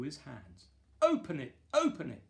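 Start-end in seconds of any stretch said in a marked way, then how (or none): 1.0-1.6 loud urging call; excited shout. Acted. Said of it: "everyone shouted". 1.7-2.2 much higher, loud urging repeat; higher excited shout. Acted. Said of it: "everyone shouted".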